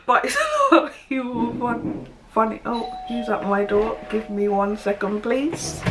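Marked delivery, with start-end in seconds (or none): 0.0-2.6 words broken by laughter; real laugh spilling into the words. Real, not acted. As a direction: try to talk through the giggles. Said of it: "I'm laughing".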